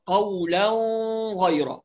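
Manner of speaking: "قولا غيرا" with a long nasal hum between the words; nasal merge. Shown as a demonstration. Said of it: "هكذا يقرأ أبو جعفر". ("قولا غيرا" بغنة في التنوين)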